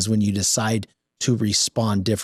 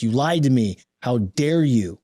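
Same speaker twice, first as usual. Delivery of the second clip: mock rage; 3 semitones higher than usual. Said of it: "rage, like".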